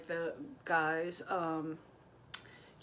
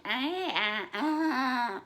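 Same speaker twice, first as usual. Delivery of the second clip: put-on loud, rising drunken "aah"; drunk heckling squeal; 5 semitones higher, 4 dB louder, much slower than usual. Comic mocking a drunk wife in the front row, sloppy loud wail. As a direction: mimic a drunk woman's rowdy wailing. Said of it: "just drunk and".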